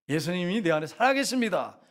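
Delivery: emphatic confession of faith; declaration. Shown as a demonstration. Pastor modelling words against rising anger, firm declaration. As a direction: proclaim it with firm conviction. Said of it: "이렇게 선포하셔야 됩니다".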